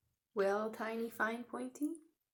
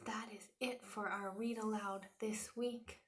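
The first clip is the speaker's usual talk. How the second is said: softer whisper; soft closing; 6 dB quieter than usual. Real, not acted. Teacher quietly ending the read aloud. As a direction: wind down softly.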